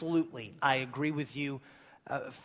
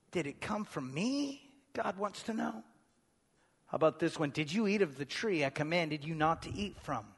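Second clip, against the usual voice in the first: quiet; 6 dB quieter than usual. Acted. Voicing God's quiet questions.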